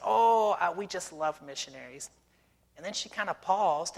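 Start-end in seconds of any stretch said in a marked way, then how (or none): 0.0-2.1 gushing lady. Retold or imitated. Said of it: "She said".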